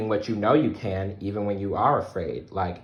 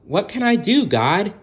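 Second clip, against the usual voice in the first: spider Webster pleading; 11 semitones higher, 6 dB louder than usual. Acted. Scared spider asks God.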